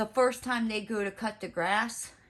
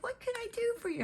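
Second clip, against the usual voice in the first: high, quick customer service voice; bright, fast phone-greeting imitation; perky phone greeting; 5 dB quieter, faster than usual. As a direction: chirp it like a call centre rep. Phone girl's greeting, quoted high.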